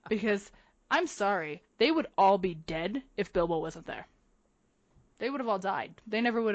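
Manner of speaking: real, emphatic indignation; pissed off. Real, not acted. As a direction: vent it forcefully, punching the curses. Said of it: "that pisses me off".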